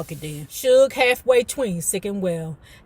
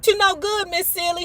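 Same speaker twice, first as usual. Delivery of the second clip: lightly voiced Tobias; 10 semitones higher than usual.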